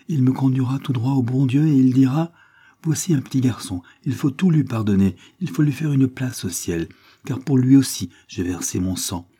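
lightly voiced child, earnest faith; a hint of a small boy reciting his hope; dying little boy, trusting. Sick boy tells papa what Jesus will say, trusting child.

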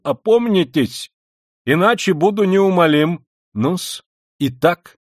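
measured admonition rising to stern insistence; insistent Luzhin. Acted. Luzhin pressing Sonya for an answer, stern admonition. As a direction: lecture with a stiff, formal firmness.

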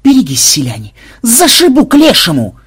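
high, loud yell to clear the road; yelled warning. A narrator's reading. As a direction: holler it, soaring up on the threat. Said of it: "завопил Ксенобайт".

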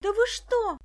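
high, loud cry of disbelief; girl shouting at the policeman, high and shocked; outraged shout. A narrator's reading. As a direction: protest at the arrest. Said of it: "закричала Даша".

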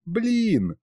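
a light giggled Блин, high and bright; mother giggles the baby's first word Блин; giggling wife. Acted. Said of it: "хихикнула супруга".

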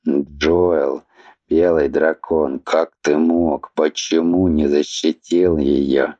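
put-on low, mournful old man mumbling; tearful old mumble. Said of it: "Постарчески плаксиво и скорбно пробормотал змей".

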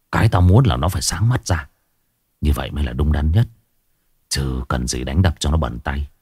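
low, stern voice of a hardened boss; deep grim lecture from a crime boss; stern gang boss. A narrator's reading. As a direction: lay down the law to a younger follower, coolly. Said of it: "Đại ca Long nghiêm sắc mặt".

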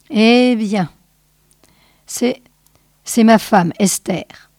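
halting, lightly broken voice; cracked voice. Acted. Small man tells the sage about his wife, cracked voice. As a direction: falter between phrases, voice cracked. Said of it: "parlait d'une voix cassée".

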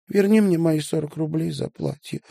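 high, hurt little squeak. Acted. Sasha sulkily demanding her forty roubles back, squeaky. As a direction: pipe it up high like a sulking child. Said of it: "обиженно пропищала Сашенька".

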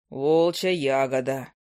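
a grumpy bird drawling down low; low owl familiar. Acted.

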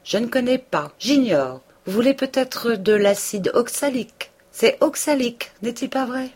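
high, loud lecturing tone; pompous correction. A narrator's reading. Homais pompously correcting Binet, high and loud. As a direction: correct him condescendingly.

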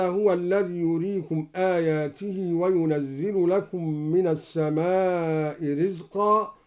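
slow, chanted tajweed recitation; Quran recitation. Shown as a demonstration. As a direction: recite with measured melody. Recites verse before demo. (تلاوة مجودة)

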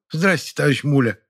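a hint of a flustered woman; embarrassed greeting. A narrator's reading. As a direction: greet him shyly. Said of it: "смутилась и покраснела". (смущённое приветствие)

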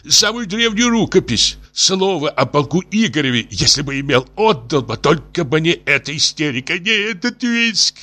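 high, desperate pleading; tipsy despair. A narrator's reading. Professor offers his library for a coat, despairing high plea. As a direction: wail and bargain in despair. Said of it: "вскричал пьяненький профессор в величайшем горе".

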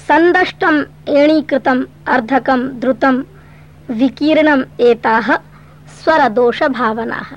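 slow measured Sanskrit chant; slow shloka recitation; verse recitation. Acted. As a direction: recite each term slowly and evenly.

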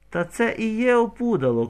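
high, loud gleeful shout; shouting over the crowd. A narrator's reading. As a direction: yell it out mockingly. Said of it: "кричить".

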